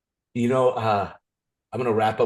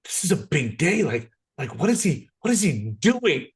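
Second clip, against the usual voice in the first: quoting Sherry; 6 semitones higher than usual. Retold or imitated. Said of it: "she was like".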